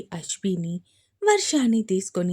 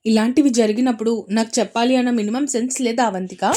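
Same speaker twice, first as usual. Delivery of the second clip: louder, a sharp rebuke; angry scolding; 6 dB louder, faster than usual. Acted. Brother Advaith scolds Avantika, angry. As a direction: scold your sister for hiding it. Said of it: "fire అయ్యాడు అద్వైత్".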